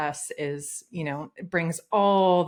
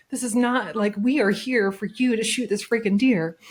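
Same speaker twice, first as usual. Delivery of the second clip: higher, louder retold objection; incredulous protest; 4 semitones higher, 5 dB louder than usual. Hunter protesting that partner should take the shot, incredulous. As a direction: insist with exasperated emphasis.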